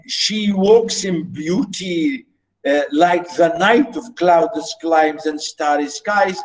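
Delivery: quoting the poem mid-lecture; poem recitation. Shown as a demonstration. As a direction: read the line gently. Teacher quoting the poem again.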